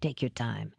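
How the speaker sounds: low, gentle reassurance; kindly. A narrator's reading. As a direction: softly give permission to pause. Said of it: "Finley said kindly".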